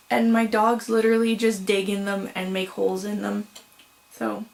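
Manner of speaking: fibers caught in mouth; yarn in mouth. Real, not acted. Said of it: "I have yarn fibers in my mouth".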